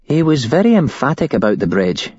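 a hint of a scared young woman; shaken woman witness. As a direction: voice her as a rattled witness telling it. Woman recounts the cult's plan.

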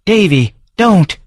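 drawn-out pleading high shout; wife shouting to stop Davy, a drawn-out high cry. A narrator's reading. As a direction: cry out to stop him, slowly. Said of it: "Morag's voice shouting".

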